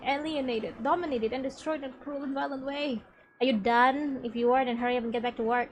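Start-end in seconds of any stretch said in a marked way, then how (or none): 3.4-5.7 loud, quick, impatient scolding; a fast, loud nag from a boss. Acted. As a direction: bark at the slacker to hurry back.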